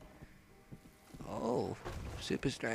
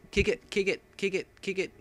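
loud, high repeated yells; frantic repeated shouting; shouted command; 7 semitones higher, 8 dB louder than usual. Real, not acted. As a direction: bark at the screen to kick it. Yelling at character to kick.

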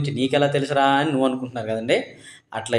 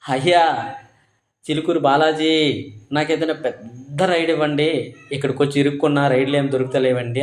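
a retold cry to the deity, raised and a little louder; loud call to god. Rider calling out to the god Chilkur Balaji for rides, in a mildly raised call. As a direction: call out to Lord Balaji from the bike for a big ride. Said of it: "గట్టిగా అరిచా".

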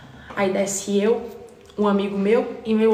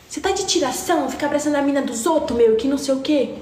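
put-on angry girl; 5 semitones higher than usual. Girl's angry outburst at the party.

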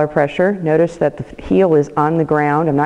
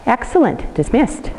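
excited praise; 8 semitones higher than usual. Real, not acted. Praising and releasing dog.

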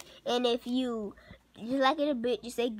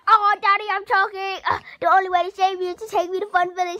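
mock choking kid; 4 semitones higher, 3 dB louder, faster than usual. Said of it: "pretend you're choking".

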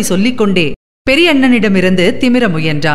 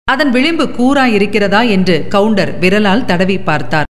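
ordinary delivery, nothing marked

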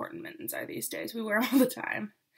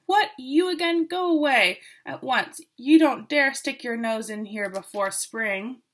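angry shout; 4 dB louder than usual. Acted. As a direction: shout her out of the forest. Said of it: "rushed forward shouting".

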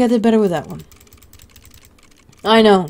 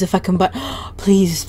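trembling whisper; 3 dB quieter than usual. Real, not acted. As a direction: whisper it in fear. Nervous move, fearing he'll die.

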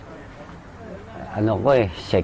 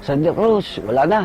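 mild mock yell; 4 semitones higher than usual. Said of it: "sinisigawan ko".

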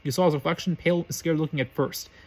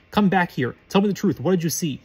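raised, louder Quirrell calling Harry back; mild shout; 2 semitones higher, 4 dB louder than usual. Acted. Quirrell shouting after the fleeing boy, raised voice. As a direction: call him back sharply. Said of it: "Quirrell shouted".

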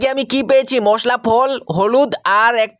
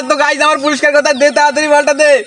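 excited shouting; 3 semitones higher, 3 dB louder than usual. Acted. Demanding the prize.

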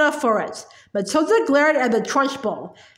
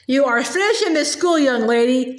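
mild shout. Acted. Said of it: "she shouted".

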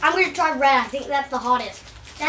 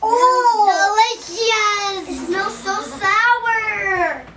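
excited sniff reaction; 7 semitones higher, 6 dB louder, much slower than usual. Real, not acted. Sniffing the sour drink.

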